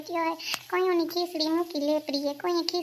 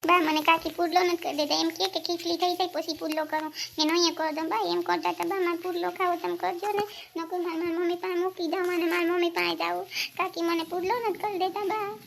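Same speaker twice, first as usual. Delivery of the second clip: whiny, tearful tattling; tearful child; 2 semitones higher than usual. Acted. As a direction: plead to grandma like an upset child. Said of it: "કેમ રડે છે?".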